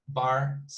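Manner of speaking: Barcelona broken into Bar, ce, lo, na; Barcelona in four separate teaching beats; four syllables. Shown as a demonstration. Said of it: "So it's four syllables".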